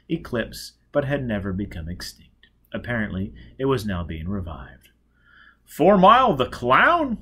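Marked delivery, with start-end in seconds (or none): 5.6-7.2 high, loud and slow society gossip; haughty society lady. Acted. Society guest gasping at the clown's name. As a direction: lift the voice into a shocked society matron.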